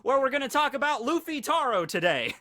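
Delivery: folksy farmer voice, grass in mouth; grass stem in teeth. Acted. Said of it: "I got a piece of grass in my mouth".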